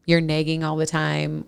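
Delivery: Minnesota accent. Real, not acted. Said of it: "Oh, what?".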